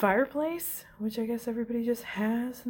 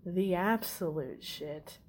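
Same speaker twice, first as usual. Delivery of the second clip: full of himself. Retold or imitated. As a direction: imitate a man who adores himself. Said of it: "hella full of himself".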